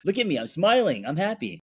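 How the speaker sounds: rising, defensive and exasperated; defensive indignation. Retold or imitated. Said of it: "I was like".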